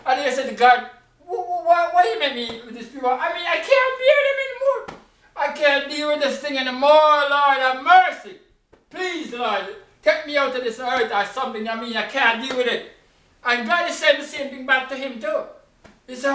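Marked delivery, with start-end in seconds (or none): 1.2-12.9 higher, fast, exasperated pleading; frustrated Moses. Acted. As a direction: Moses at the end of his rope with the people. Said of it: "Moses sometimes was frustrated".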